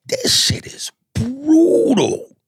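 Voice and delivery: slow, high half-sobbing mock cry; stretched-out crying complaint. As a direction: wail it like a hammed-up sob. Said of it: "I just went".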